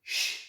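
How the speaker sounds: Sh softly together, a quiet long hiss; sh sound. Shown as a demonstration. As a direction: lead the class in a gentle Sh. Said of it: "Let's try together".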